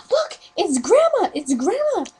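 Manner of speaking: put-on high, loud child's shout; loud, high-pitched mock-child cries; imitated excited kids. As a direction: call out like a thrilled kid spotting someone. Kids spot grandma at the cemetery.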